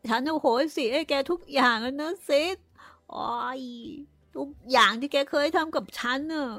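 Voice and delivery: Tom playing the dying martyr. A narrator's reading. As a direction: forgive everyone as if on a deathbed. (ทอมพูดเหมือนคนใกล้ตาย)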